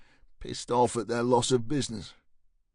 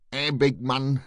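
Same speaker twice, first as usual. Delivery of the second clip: put-on Yorkshire accent, called out a little louder; Yorkshire shout; 4 dB louder than usual. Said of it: "she shouted in a Yorkshire accent".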